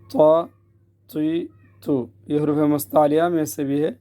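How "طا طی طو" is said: full-mouthed emphatic t; heavy taa. Shown as a demonstration. Teacher explains thick letters, making the t heavy. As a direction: thicken the t, tongue raised at the back. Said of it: "موٹے حروف میں سے ہیں".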